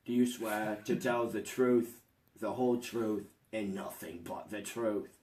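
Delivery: stern judge. Acted. Judge swears in witness.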